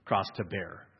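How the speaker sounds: mock the martyr; mock complaining. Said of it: "You'll hear people go".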